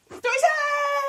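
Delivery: loud, slow excited announcement; excited shout. Real, not acted. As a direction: call it out like a game show. Announcing the story segment.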